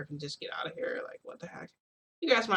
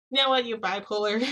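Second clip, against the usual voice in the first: much higher and louder, fed-up snap; exasperated outburst; 5 semitones higher, 6 dB louder than usual. Retold or imitated. Narrator losing patience with Hawks who keeps teasing, loud exasperated outburst. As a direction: throw it at him in frustration.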